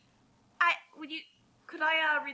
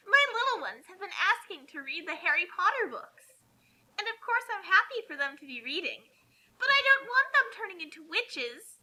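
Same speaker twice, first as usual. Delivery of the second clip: higher, gushing mock-mother; silly mommy voice; 5 semitones higher than usual. Reading the author's note as the clueless mother. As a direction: ham up the naive fanfic author. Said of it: "try to just sound extremely stupid".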